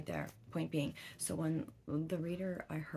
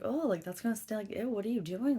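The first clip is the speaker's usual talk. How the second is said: higher, louder grossed-out cry; disgusted exclamation; 6 semitones higher, 6 dB louder than usual. Retold or imitated. Mom grossed out by her daughter's dragon breath, loud disgust. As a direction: recoil from the smell out loud.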